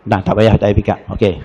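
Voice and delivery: ordinary delivery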